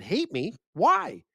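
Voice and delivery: shocked disbelief, high rising why; retold surprise. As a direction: pitch jumps high on why. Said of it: "I said".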